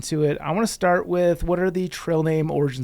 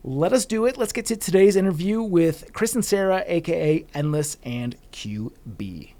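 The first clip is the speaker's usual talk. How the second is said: host hype; 3 semitones higher than usual. Acted. Podcast host introducing guests, upbeat announcer voice. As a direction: pump up the listeners for the interview.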